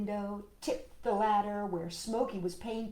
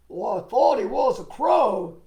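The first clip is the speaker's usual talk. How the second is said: a hint of a gruff excuse, louder; lightly voiced townsman; 9 dB louder than usual. Man who shot at the boy excusing himself, lightly voiced. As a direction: brush it off as a mistake. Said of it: "he said".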